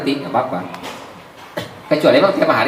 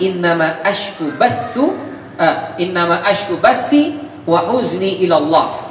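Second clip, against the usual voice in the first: Quranic recitation; 2 semitones higher, slower than usual. Acted.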